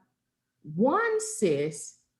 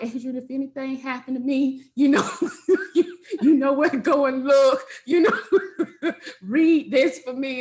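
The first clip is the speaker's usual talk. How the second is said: louder, higher plea broken by laughs; laughing plea; 5 semitones higher, 6 dB louder than usual. Retold or imitated. Retelling her plea to best friend Adrian, laughing and louder. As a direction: plead through laughter.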